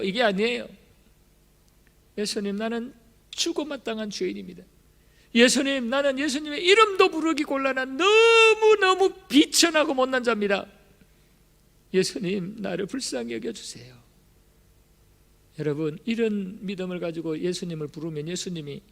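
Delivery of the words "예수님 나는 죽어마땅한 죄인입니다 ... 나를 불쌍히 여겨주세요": a plea that breaks into crying, louder mid-way; a mild crying prayer, then sinking; tearful plea. Acted. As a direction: sob out your unworthiness. Beggar's tearful plea acted.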